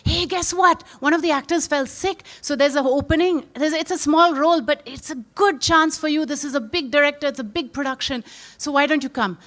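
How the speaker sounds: lightly acted excitement; excited roommate. Roommate urging struggling actor to take the role, excited. Roommate brings news of opening.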